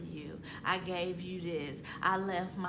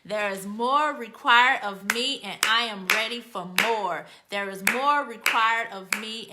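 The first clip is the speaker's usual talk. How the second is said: building declaration; 4 dB louder than usual. Acted. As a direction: chant it, swelling louder each round. Leads a repeated declaration, building.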